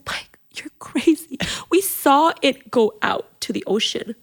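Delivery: slow, stressed disbelief; exasperated plea. Retold or imitated. Wife urges husband to forget the lost hat, exasperated. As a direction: talk him out of it, drawing the words out.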